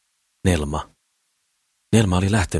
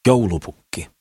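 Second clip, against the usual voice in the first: a lightly raised jeering call; mild mock shout; 3 semitones higher, slower than usual. A narrator's reading. Farmers calling at Sakris from their carts, mild shout. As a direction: call it out as passers-by, without real volume. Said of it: "Ja eräät huusivat".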